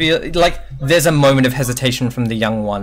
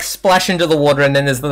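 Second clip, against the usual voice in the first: normal talking voice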